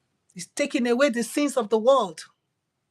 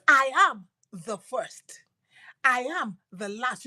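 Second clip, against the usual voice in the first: whisper. Acted. Jesus's words whispered.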